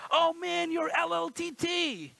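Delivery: mock a classmate's teasing; taunting kid. Neighborhood kid teasing the pastor as a boy, high mock taunt. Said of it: "He'll be like".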